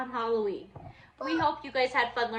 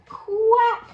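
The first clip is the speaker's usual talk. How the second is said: loud high quack; duck quack; 8 semitones higher, 11 dB louder than usual. Acted. Duck revealing itself under the mask, loud quack. Duck animal sound in story.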